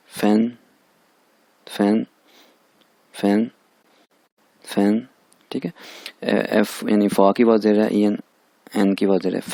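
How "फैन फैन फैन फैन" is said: फैन on an even pitch; first tone. Shown as a demonstration. Teacher demonstrating first tone on फैन, level tone. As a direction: keep फैन level and separate. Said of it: "first tone है इस पे".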